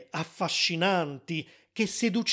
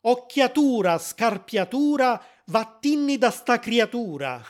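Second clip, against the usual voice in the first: chanted Sicilian spell, raised and higher; sicilian dialect; 5 semitones higher, 3 dB louder than usual. Retold or imitated. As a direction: intone the charm in Sicilian dialect. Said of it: "ripetevano in dialetto siciliano".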